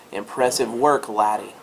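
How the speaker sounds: lightly put-on Scottish brogue; Scottish dwarf accent. Dwarf quest giver praising a player's work, Scottish accent. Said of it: "all dwarves have a Scottish accent".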